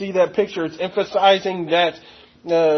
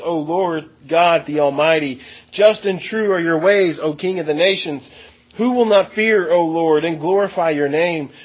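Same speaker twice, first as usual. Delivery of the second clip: measured, solemn scripture reading. Acted. Preacher reading the song of the Lamb to the congregation, solemn. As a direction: read the song of the Lamb with weight. Reads scripture aloud in church.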